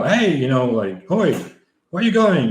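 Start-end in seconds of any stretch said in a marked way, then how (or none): 0.0-0.4 higher-pitched retold call-out; mock yell. Runner calls after departing car, mild mock yell. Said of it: "I was going to yell". 1.1-2.5 half-hearted shout to get someone's attention; mock yell. Finder calls after driver who dropped bag, mock yell. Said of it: "I was going to yell".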